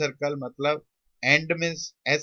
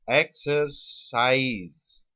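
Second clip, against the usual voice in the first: slow sounding-out; 3 dB louder, much slower than usual. Shown as a demonstration. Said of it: "जब word बोलोगे अपने आप".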